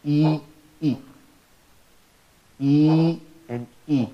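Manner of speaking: e said long then short. Shown as a demonstration. Teacher showing ya versus kasra length, e. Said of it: "the kasra is exactly the half".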